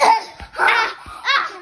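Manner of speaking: high, loud laughing fake agony; mock dying, laughing. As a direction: ham up dying while cracking up. Kid pretends to be hurt.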